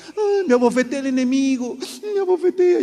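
high, loud hammed-up lament; mock whining. Preacher mocking a complaining believer, hammed-up whine. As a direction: whine like a self-pitying victim. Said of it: "no andaba llorando".

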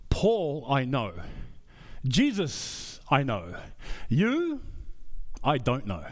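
low, drawn-out demon voice, voice jumping up on "You"; lightly voiced menacing demon; mocking demon voice. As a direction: sneer it like a demon who knows Paul but not you. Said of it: "the response of this demon was like".

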